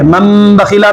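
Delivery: teacher recites "من بخیلا" slowly as "ممبخیلا", nun becoming meem; slow demo with nun turned to meem. Shown as a demonstration. Teacher shows students slowly, "من بخیلا" with meem sound. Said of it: "نون ساکن کے بعد یہاں پر با آ رہا ہے".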